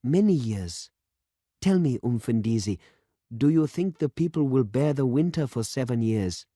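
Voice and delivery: put-on young man pressing the old priest with a hard question; young demonstrator. A narrator's reading. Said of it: "said the demonstrator".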